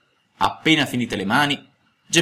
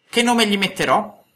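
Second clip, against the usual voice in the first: Geppetto to himself; 10 semitones higher, 3 dB louder than usual. A narrator's reading. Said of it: "disse fra sé e sé".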